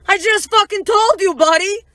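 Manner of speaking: high, loud and drawn-out comeback; mock exasperated protest; retold exasperation. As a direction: stretch it out, acting fed up with the guy.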